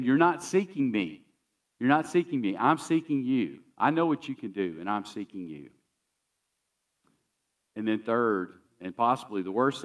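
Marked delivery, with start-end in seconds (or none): 0.0-5.7 pleading woman. Acted. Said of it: "she's saying to him".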